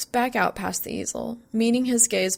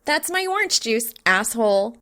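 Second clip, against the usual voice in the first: sweet singsong; 3 semitones higher, 4 dB louder than usual. Acted. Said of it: "she sings out sweetly".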